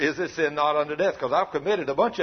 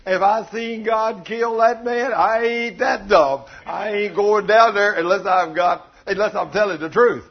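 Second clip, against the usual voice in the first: emphatic; 3 semitones higher, 8 dB louder than usual. Real, not acted. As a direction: hammer it home to the congregation. Preacher emphatic about not going down.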